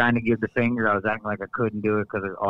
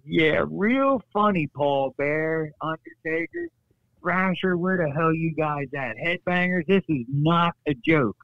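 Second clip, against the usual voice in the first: mock sarcastic calling out; 5 semitones higher, slower than usual. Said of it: "And I said".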